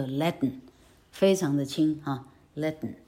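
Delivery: Latin with a very light n; barely touch the final n of Latin; light syllabic n. Shown as a demonstration.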